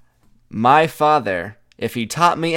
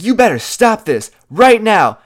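a mock angry father's yell, much higher and louder; imitated yelling; 9 semitones higher, 7 dB louder than usual. Her father to the visitor outside the house, imitated yelling. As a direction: yell it like an irate dad warning someone off. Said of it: "he starts yelling at me".

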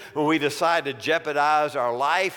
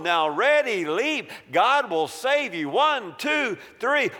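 higher, insistent sales pitch; tempter devil; 4 semitones higher than usual. Acted. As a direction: quote scripture in a lilting, urging voice. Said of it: "The devil's making a new pitch".

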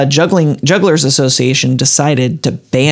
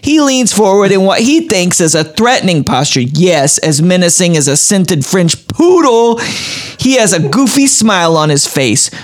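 lightly put-on New Jersey accent; dramatic read with a hint of Jersey. Reading out Sylvia's combat juggling story, light Jersey accent. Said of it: "how do you do a Jersey accent?".

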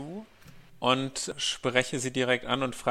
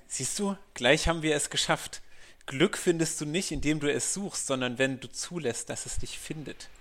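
tröstend; 3 semitones higher than usual. Acted. Peter consoles Teti in character.

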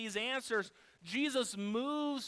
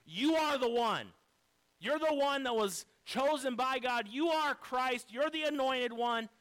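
emphatic declaration. Retold or imitated. Peter declaring to Jesus who he is, emphatic and building. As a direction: preach it as a mounting confession. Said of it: "Peter emphatically speaks up first".

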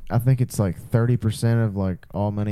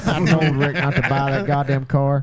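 put-on old man voice; slower than usual. Pawn shop old man bit.

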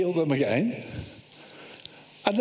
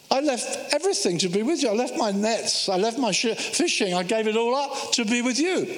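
protesting Peter; 4 semitones higher than usual. Acted. Peter protests Jesus's leaving.

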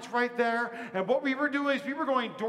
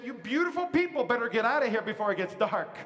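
laughing warning. Retold or imitated. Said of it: "she said".

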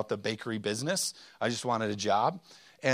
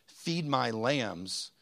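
slow emphasis; much slower than usual. Retold or imitated. Quoting Jesus, slowed for weight.

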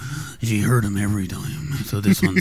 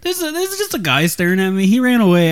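panicked voice; 9 semitones higher, 4 dB louder than usual. Retold or imitated. Friend voices panicked speaker.

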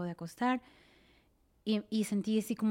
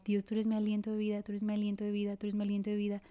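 soft prayer; 4 dB quieter, faster than usual. Retold or imitated. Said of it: "neta, orar".

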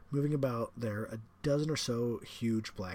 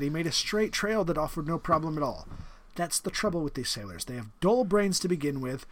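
higher and louder, sneering disdain; the general, scornful; 4 semitones higher, 6 dB louder than usual. Acted. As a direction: dismiss the sailors with contempt. General complains about sailors.

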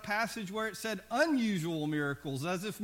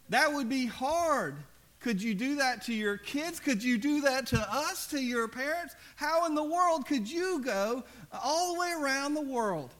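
pleading, rising louder and higher; protesting grandparents; 4 semitones higher, 4 dB louder than usual. Retold or imitated. Parents pleading with their missionary children, rising loud. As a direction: mom and dad begging the kids to stay.

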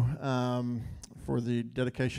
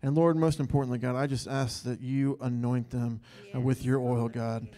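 steady, earnest prayer voice; heartfelt prayer. Real, not acted. Leader prays over the pastor couple in front of the church, earnest.

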